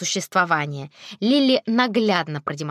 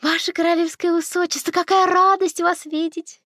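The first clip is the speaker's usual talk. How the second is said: gushing saleswoman; 10 semitones higher than usual. A narrator's reading. Saleswoman greets the princess, high and gushing. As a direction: gush over royalty. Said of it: "восклицая".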